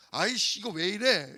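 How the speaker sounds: mock annoyed outburst; irritated grumble. Grumbling to oneself instead of asking God, irritated. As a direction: grumble in irritation, half-laughing. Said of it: "이게 아니라".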